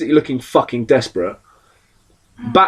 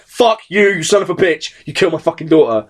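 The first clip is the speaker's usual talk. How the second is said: raised, heated voice, hammed-up rage; mock furious; 4 semitones higher than usual. Gordon cursing the Joker for his daughter, mock rage. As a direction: spit it at him like a grieving father. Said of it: "And he was just like".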